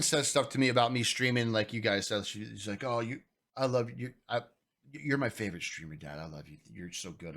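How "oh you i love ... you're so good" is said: tender, hushed quote; loving son. Retold or imitated. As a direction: gently voice a child's praise, softly. Voicing young son's loving praise.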